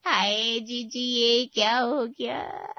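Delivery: wailing grief. Acted. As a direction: cry out in mourning for the lost child. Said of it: "Vimla चाची जोर से रोती हुई अंदर घुसी". (रोते हुए विलाप)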